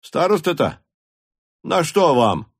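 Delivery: Карп asking. A narrator's reading. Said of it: "спросил Карп".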